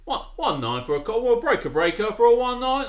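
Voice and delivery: loud, high trucker on the radio; CB trucker impression. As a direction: belt it out like a trucker on CB. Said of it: "I turn into this, this trucker".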